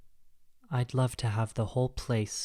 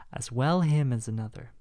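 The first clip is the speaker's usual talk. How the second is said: defiant; 6 dB louder than usual. Acted. Recalled thought under the wall.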